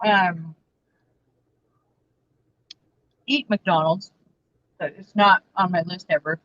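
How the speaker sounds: chewing fries while talking; mouth full. Real, not acted. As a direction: talk through a mouthful. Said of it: "talk with my mouth full".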